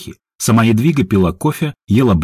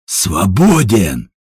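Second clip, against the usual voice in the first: barked order; much slower than usual. A narrator's reading. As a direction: snap the one word out like a boss. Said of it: "рявкнул Степан". (рявкнул, но без настоящего крика)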